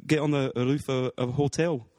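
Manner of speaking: light put-on Scottish accent, rolling the r's; casual chat in a hammed-up Scottish accent. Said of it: "a Scottish accent".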